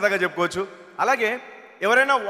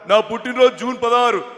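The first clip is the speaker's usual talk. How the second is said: lightly mimicked elder politician; V Hanumantha Rao; 4 dB louder than usual. Politician telling his birthday, lightly mimicked voice. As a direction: answer firmly in the politician's voice. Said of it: "హనుమంతరావు గారి bit ఒకటి".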